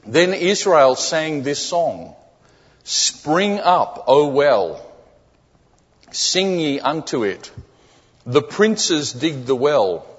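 scripture reading. Acted. Preacher reading the text to the church, measured scripture reading. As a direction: read the verse out deliberately, phrase by phrase. Reads the scripture passage aloud.

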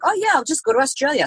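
high, airy mock-carefree tone; tossing it off as if nothing matters; breezy denial. Deciding to move abroad, mock-carefree and airy. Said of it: "I'm like".

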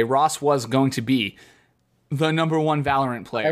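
deliberately cringy teasing. Real, not acted. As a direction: draw it out to tease your co-host. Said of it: "super cringy when you say it like that".

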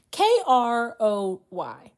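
each letter set apart, slow and deliberate; slow spelling. Shown as a demonstration. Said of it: "spells the name letter by letter".

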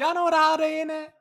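high squeal through laughter; laughing. Retold or imitated. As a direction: laugh the line out, high and fast. Repeating the TikTok quote, laughing.

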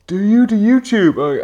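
slow, high, loud mock bellow; imitated aggressive shout. Big dude at a festival, aggressively shouting. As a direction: shout it like a confrontation. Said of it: "he was really aggressively shouting at me".

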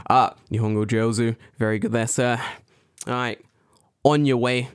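lightly voiced policeman; a touch of official patter. Shown as a demonstration. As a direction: dismiss them like a cop on patrol. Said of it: "say it in a policeman way".

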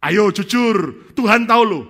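high, loud, very slow pressing; pushy plea. Acted. Pastors urging the third to be honest, loud slow pressing. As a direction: lean on him hard.

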